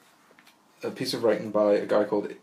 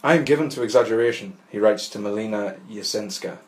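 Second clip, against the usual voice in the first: measured, deliberate literary reading; essay read aloud. Acted. Podcaster reading an essay on Kafka to listeners, measured literary reading. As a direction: read it out in full, composed sentences.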